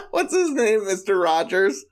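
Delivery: breaking into high laughter mid-word; giggling too hard to get it out; laughing. Real, not acted. Laughing at her partner's attempt at an accent. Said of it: "laughing through the words".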